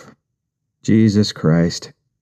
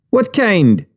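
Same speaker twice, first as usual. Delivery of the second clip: high Jamaican question; curious Jamaican patois; Jamaican accent; 11 semitones higher than usual. Retold or imitated. Wife beater voiced.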